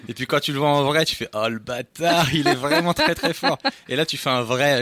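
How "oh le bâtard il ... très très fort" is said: amazed. Retold or imitated. Awed reaction on meeting Gad.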